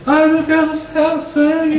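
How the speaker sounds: high, loud mock panic; panicking father. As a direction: overreact like a frightened dad at the sight of blood. (pai desesperado exagerado, voz aguda e alta)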